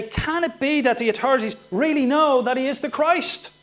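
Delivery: a light sarcastic sneer; sarcastic mocking. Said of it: "with a sarcastic, mocking tone".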